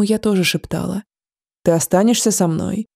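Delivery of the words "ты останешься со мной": weak and bedridden. Acted. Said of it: "Стас говорил медленно".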